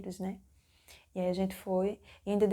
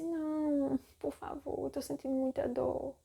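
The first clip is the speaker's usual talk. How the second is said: high, imitated whiny plea; pleading; 6 semitones higher than usual. Labouring patient begging the doctor not to move her, high pleading. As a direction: beg pitifully, acting it out.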